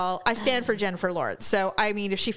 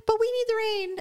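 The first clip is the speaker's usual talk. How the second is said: mock Californian; 10 semitones higher than usual. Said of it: "as everybody in California will say".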